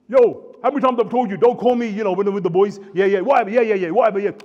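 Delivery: imitating a guy snapping at his wife in front of the boys; hammed-up impatient yeah yeah whatever; mock dismissive husband. Husband brushing off wife before mates.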